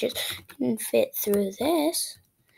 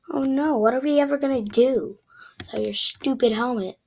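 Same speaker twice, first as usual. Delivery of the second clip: mock sarcasm; faster than usual. Mock despair, then whispered jab.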